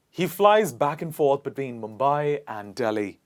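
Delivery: clearly articulated example sentence; clear model sentence. Shown as a demonstration. Teacher says the sentence for class to repeat, clearly. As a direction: say it clearly for learners to copy. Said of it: "allow me to say the sentence clearly".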